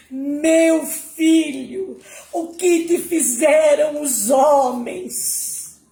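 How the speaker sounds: high, drawn-out wail of grief; lamenting mother, high and slow; mother's anguished cry. A narrator's reading. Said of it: "ela gritou".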